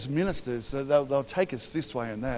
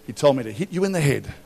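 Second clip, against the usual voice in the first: laughing mock quote; 5 dB louder, faster than usual. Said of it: "I'm like".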